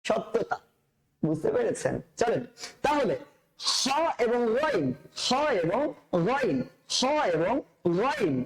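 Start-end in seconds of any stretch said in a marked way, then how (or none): 3.6-8.3 "খ" and "গইন" from the same throat spot; Arabic "খ" and "গইন" drilled from the throat; throat letters. Shown as a demonstration. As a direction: pair a scraped "খ" with a throaty "গইন". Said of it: "কণ্ঠনালীর শেষ ভাগ থেকে".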